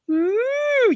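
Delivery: squealing ooh, very high; high excited ooh. Real, not acted. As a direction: squeal with delight.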